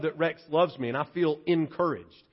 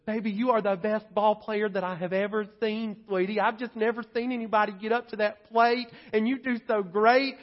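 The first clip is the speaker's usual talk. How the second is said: higher, sweetly encouraging mom voice; gushing mother; 3 semitones higher than usual. Retold or imitated. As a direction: gush like a proud mother to her child. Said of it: "your mother comes along behind you and says".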